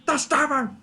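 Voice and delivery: very high falsetto exclamation; squealed mock horror. Crying out the pet's name, squealed mock horror.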